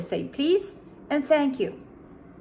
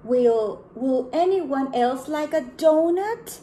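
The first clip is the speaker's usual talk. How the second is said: louder, slow hopeful ask; panda asking; 4 semitones higher, 4 dB louder, slower than usual. Acted. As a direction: draw out the offer slowly. Panda asks again.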